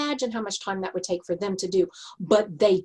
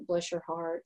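softer, lower fond pity; gently pitying husband; 4 semitones lower, 9 dB quieter than usual. Retold or imitated. Husband to optimistic wife, gently pitying. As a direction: imitate a husband softly letting someone down. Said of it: "my husband says sometimes".

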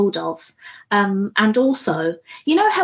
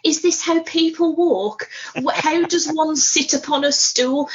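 self-conscious; 6 semitones higher than usual. Retold or imitated. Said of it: "I was walking in such a manner".

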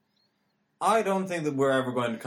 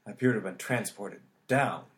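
dramatic halting captain voice; Kirk impression. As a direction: pause heavily like a starship captain. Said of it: "James Tiberius Kirk".

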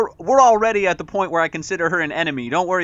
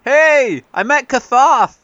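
excited; 6 semitones higher, 7 dB louder than usual. Acted. Excited call to friends.

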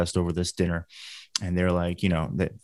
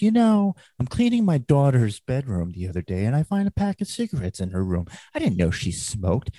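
a touch of stand-up character voice, swooping from high; Gilbert Gottfried impression; 4 semitones higher than usual. Storyteller mimics comedian's Italian woman joke, light impression. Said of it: "Godfrey goes up there and he goes".

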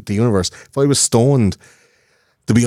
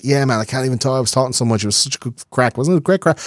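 hungover mate; 5 semitones higher, faster than usual. Retold or imitated. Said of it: "wake up the next day and say".

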